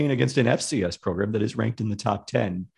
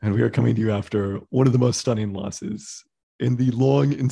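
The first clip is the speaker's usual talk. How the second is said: funeral voice; 4 semitones lower than usual. Acted. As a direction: deliver it like a graveside eulogy. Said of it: "The funeral voice".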